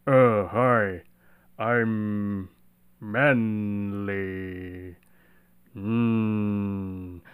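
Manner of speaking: lightly voiced deep macho guy; a hint of a dark, back-of-throat macho tone; dark manly voice. Shown as a demonstration. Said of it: "imitating a traditional, like, masculine tone".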